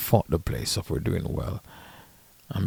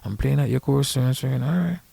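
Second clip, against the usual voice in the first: mildly hammed-up player, pitched higher; imitated player; 6 semitones higher than usual. Player sweet-talking the caddy about an upcoming game, lightly mimicked. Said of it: "So a fucking player say".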